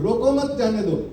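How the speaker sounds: "रोको मत" as one unit, then "जाने दो"; group मत with रोको; pause after मत. Shown as a demonstration. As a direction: run रोको into मत, then let जाने दो follow. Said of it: "मतलब कितना अलग हुआ ना".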